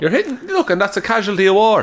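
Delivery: mock war hero.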